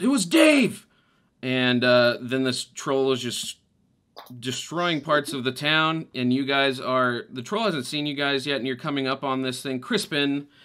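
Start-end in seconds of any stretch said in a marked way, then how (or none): 0.0-0.9 shrill, very high, loud scream. Voicing a townsperson answering who had the wheelbarrow: townsperson screaming. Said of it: "someone screams".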